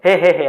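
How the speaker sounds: a small embarrassed laugh, read flat; sheepish heh heh heh. Retold or imitated. Embarrassed stranger laughing at the wrong-room mistake, a mild heh heh. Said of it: "हंसता है".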